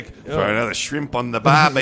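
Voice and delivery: mock Australian accent. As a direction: put on an Aussie accent. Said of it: "You said they was from Austria".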